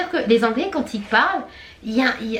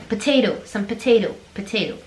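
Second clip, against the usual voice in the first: American flapped T. Shown as a demonstration. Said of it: "ils vont transformer les T en D".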